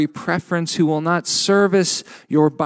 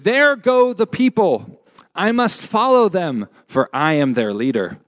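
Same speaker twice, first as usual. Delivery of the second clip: lightly put-on French accent, higher at the start; a preacher mocking a French revolutionary in a weak French accent; bad French accent; 4 semitones higher than usual. A hint of a bad French accent. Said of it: "so the accent is bad".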